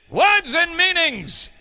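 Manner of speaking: put-on dramatic English accent announcement; English accent, drawn out. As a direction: stretch words and meanings out slowly in a teacherly English accent. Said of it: "the English accent".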